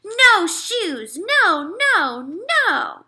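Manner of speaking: high loud tantrum scream; little brother screaming in the shoe store; toddler screaming. A narrator's reading. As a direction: scream no at full tilt. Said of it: "He screamed".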